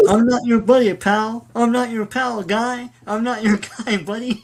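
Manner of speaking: cartoon Canadian. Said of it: "I love the Canadians in South Park".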